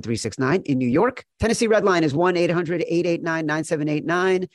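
rapid-fire legal fine print; fast legal disclaimer. Acted. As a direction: rattle off the disclaimer.

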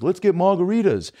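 high-pitched mock-British suggestion; a famous singer. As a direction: propose it as a cartoon British star. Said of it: "a caricature of a, of a British guy".

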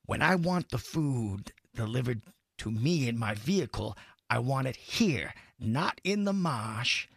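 lightly put-on film-star voice, words spaced out; Jack Nicholson. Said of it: "is that Jack Nicholson".

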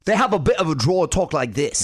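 rough attempt at a South African accent; lightly put-on South African accent, missing the mark. Host demonstrates number two, attempted South African accent. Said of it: "South African".

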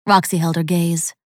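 ordinary delivery, nothing marked

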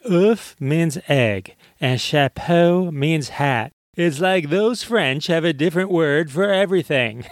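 a lightly done bad impression of a comedian; horrible comedian impression. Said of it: "excuse my horrible impression".

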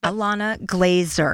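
slow, careful "Glazer"; corrected pronunciation. Shown as a demonstration. Host repeats guest's name after being corrected, careful pronunciation. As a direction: say "Glazer" deliberately, as just corrected. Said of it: "correct you and say it's Glazer".

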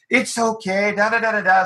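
imitating a mom's soothing tone; soft-spoken reassurance. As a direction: gently encourage a scared little boy. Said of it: "she's really soft-spoken like this to the boy".

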